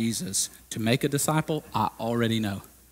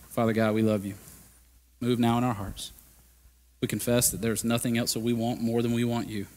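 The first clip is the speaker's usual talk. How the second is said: prayer. Acted. Closing prayer.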